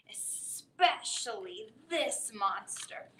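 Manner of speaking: put-on whispered aside to the kids. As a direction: lean in and whisper it. Conspiratorial aside in story.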